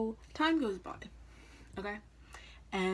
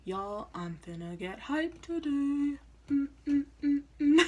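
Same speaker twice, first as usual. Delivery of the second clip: hyped; 8 semitones higher, 7 dB louder, slower than usual. Retold or imitated. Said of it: "I'm like".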